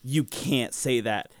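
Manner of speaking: slow, deliberate scolding mother; stern aunt. Retold or imitated. Aunt scolding her little son for cursing, slow and stern. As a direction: lay down the rule word by word. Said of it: "And so she goes".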